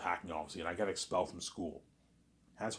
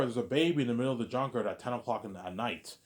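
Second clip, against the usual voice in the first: retold call into the dark, raised at first; 3 semitones higher than usual. A man finds a baby in the junkyard, calling out. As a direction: call out for anyone there, then let it drop. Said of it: "He calls out".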